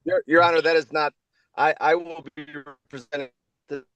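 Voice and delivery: choppy, breaking-up audio; bad connection. Real, not acted. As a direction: voice cutting in and out. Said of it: "You're breaking up".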